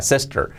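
"sister" as "sester" with a clear R ending; marked final R. Shown as a demonstration. Teacher sums up for learners, "sister" with marked R. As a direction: say the I in "sister" like E, finish on R. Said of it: "la R bien marcada al final".

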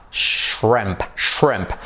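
shrimp with I like E, strong R; shrimp, short vowel like E; shrimp like shremp. Shown as a demonstration. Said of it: "La I como una E".

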